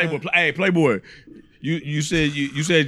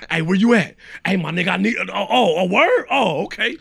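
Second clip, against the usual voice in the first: mock fake phone call; 3 semitones higher than usual. Acting fake emergency call.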